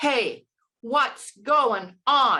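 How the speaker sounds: projecting the voice, calling. Showing how to project the voice as if calling across a park. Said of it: "project your voice as if you are calling over a park".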